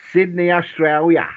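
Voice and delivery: a bad put-on Australian accent on the place name; hammed-up Australian accent, sliding high; rubbish Australian accent. Host greeting an Australian listener in a bad Australian accent. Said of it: "one of the most rubbish Australian accents".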